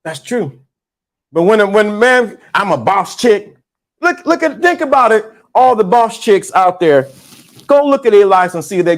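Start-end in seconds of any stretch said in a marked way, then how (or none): none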